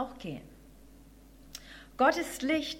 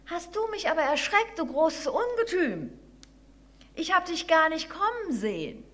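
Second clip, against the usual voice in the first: higher-pitched voice of a startled mouse; startled little mouse; 6 semitones higher than usual. Acted. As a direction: scold the big monster as a frightened little mouse.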